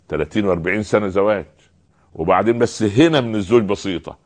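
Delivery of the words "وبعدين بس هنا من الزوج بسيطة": normal talking voice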